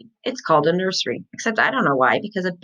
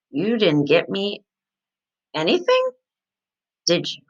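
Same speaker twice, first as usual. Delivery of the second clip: growly. A narrator's reading. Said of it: "I said, very growly".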